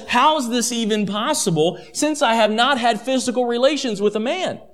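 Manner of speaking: acted curiosity, pitch lifted; curious questioning. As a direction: ask it with mild wonder, not doubt. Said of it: "is at least some curiosity".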